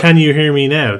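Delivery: ad tagline voice. Retold or imitated. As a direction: sell it like a phone ad. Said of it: "That's basically going".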